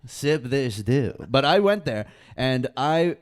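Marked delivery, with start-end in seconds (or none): 0.1-1.1 slow, louder ad-style slogan; mock ad slogan. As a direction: sell it like a TV ad.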